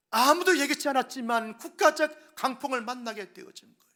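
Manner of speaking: loud, driving sermon voice; preaching at full force. Acted. Pastor preaching to his church about storms, forceful preaching. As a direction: hammer each phrase home to the pews.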